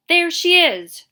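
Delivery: loud, high shout. A narrator's reading. Trout leading the mob, shouting. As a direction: bellow it out to the crowd. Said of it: "Trout shouted".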